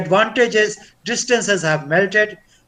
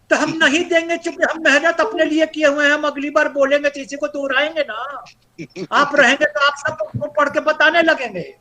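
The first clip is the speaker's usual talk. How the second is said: higher, fast mock-explanation to a trainee; teasing refusal; 6 semitones higher, much faster than usual. Trainer refuses participant the slide copies, fast teasing refusal. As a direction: rattle off a raised-pitch, playful refusal.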